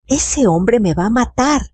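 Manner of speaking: high, pleading mock sob; sobbing cry. Paola begs Mateo for help, with a hammed-up tearful cry. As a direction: cry out, half in tears. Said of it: "gritó entre sollozos".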